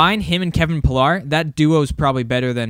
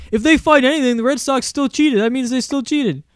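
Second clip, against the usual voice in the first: mock the radio hosts in a shrill whine; 10 semitones higher than usual. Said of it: "'Cause they're like".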